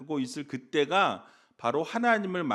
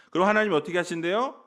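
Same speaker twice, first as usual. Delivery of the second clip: ordinary talk, nothing marked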